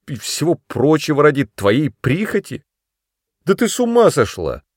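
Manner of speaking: loud, high, rising fury; angry scolding. A narrator's reading. Brother scolds sister for wanting him to stay, furious. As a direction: berate her for being foolish.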